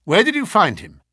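high, loud, urgent questioning; acted frantic appeal; alarmed cry. A narrator's reading. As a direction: demand answers in agitation. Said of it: "he cried".

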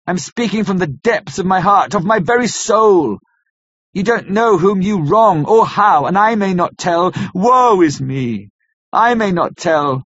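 tearful entreaty. Acted. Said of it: "poured forth a torrent of entreaty, with the tears rolling down his cheeks".

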